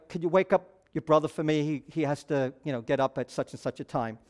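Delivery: casual, quiet quote of a mother asking a favor; mother's request. Retold or imitated. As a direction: relay mom's request in a low, easy voice. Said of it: "my mother would say".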